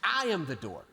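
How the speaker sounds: a touch of stern rebuke; firm, measured scolding of the Pharisees; understated angry pronouncement; mild mock anger. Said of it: "in an angry voice".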